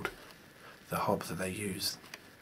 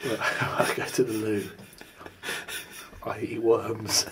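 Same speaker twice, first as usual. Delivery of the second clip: loud badger character; 2 semitones higher, 9 dB louder than usual. Playing Mister Badger, boasting loudly.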